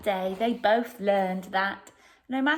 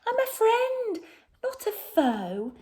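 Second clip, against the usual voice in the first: peeping mouse; 4 semitones higher, 3 dB louder than usual. Acted. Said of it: "Mouse peeped".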